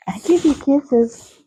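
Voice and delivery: playful owner voicing her horse's thoughts. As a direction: speak for the horse giving kisses, slowly. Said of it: "You're like".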